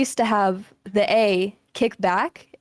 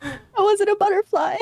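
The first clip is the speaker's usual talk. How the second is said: laughing protest; 11 semitones higher than usual. Real, not acted. Crying laugh, mock protest.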